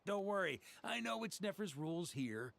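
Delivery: laughing it off lightly; easy chuckle through the words; a friendly laugh as he reassures; chuckling reassurance. Acted.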